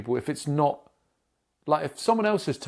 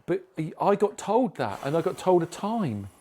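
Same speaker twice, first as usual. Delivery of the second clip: higher-pitched, stressed protest; indignant complaint; 3 semitones higher than usual. Retold or imitated. Customer arguing with Curry's about a missed delivery, indignant. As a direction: push back on being fobbed off, drawing out the words. Acted phone complaint to the retailer.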